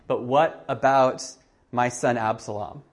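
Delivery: dismissive. Retold or imitated.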